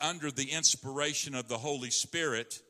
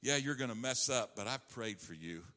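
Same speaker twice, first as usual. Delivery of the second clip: gentle encouragement; tender Lord; 2 semitones lower than usual. Acted. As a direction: comfort Peter after his failure. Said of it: "The Lord said".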